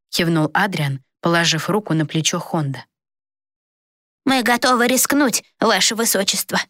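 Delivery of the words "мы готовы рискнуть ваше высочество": firm, higher vow of loyalty; resolute. A narrator's reading. Servant firmly pledging to the prince, resolute. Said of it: "решительно ответил тот".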